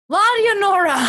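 dramatic title announcement. Real, not acted.

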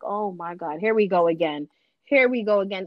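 low, resigned retold sigh of words; weary resignation. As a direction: sound fed up with yet another round. Child facing mother's extreme behaviour.

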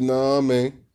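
mock outrage. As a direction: retell your own indignant reaction, hammed-up. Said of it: "I said".

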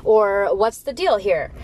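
pouty, entitled whining about wrapping paper; hammed-up petulant kid; whiny spoiled gift receiver. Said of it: "are you gonna be like".

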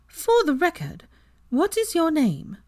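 high, slow and stern; stern Luna. Acted. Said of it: "surprisingly stern expression".

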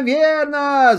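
high, eager cry repeated; excited shout. Acted. Hares shout agreement together, excited. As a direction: cry it out again with glee. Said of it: "закричали зайцы".

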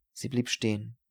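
plain reading voice

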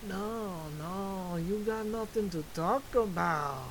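put-on voice of a nagging inner critic; little inner voice. Tiny voice talking him out of podcasting, put-on nagging. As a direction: play the tiny voice in your head. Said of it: "he sounds like that".

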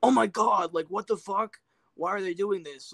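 loud, high-pitched mock fan outrage. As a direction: exclaim it like an outraged fan, easing off at the end. Mock outrage at casting change.

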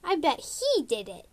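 whisper-scared tattling; timid kit. Retold or imitated. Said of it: "Cactus Kit was like".

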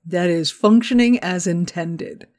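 slow deliberate deadpan. Acted. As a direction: spell it out slowly like a bug report. Deadpan slow software joke.

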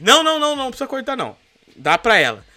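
lightly voiced mother begging the king to spare the child; pleading mother. Mãe verdadeira implora ao rei. (mãe implorando ao rei, em tom de leve imitação)

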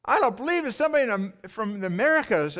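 high-pitched, emphatic re-enactment of crying disbelief; retold tearful disbelief. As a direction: replay the upset without really sobbing. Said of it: "I'm crying".

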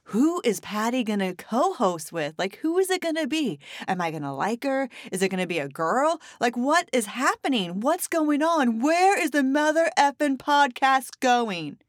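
mock anxious listener. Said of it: "you're just wondering".

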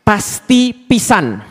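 "pasti pisan" stretched out very slowly; emphatic certainty. Shown as a demonstration. Preacher translating into Sundanese, "pasti pisan" slow and emphatic. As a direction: hammer home "pasti pisan", each word long and separate. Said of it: "dua kali ditegaskan".

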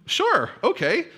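very high, slow hesitant agreement; hesitant crowd. Retold or imitated. Crowd agrees warily, very high and slow. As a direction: agree with a drawn-out high doubt.

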